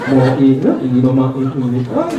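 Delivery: low, slurred, complaining; a hint of crying in the nasal voice; whiny nasal-speech voice. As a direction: plead like a frustrated customer with a speech impediment. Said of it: "Umiyak naman".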